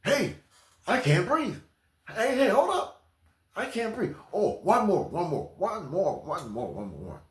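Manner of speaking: high pleading, dying away; mock winded runaway. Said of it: "They catch you".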